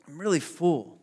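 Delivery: lightly voiced small child, soft and pleading; mild child voice begging mommy and daddy; whiny kid. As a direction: play a kid angling out of dinner.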